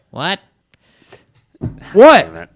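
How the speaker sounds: high squeaky put-on "what"; tiny helium-style voice; squeaky little-person voice. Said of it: "Why do they talk like that?".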